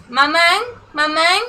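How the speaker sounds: southern French "maman" with a rising, twangy nasal ending; southern French accent. Shown as a demonstration. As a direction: say it like a cousin from the south of France. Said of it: "they speak like this".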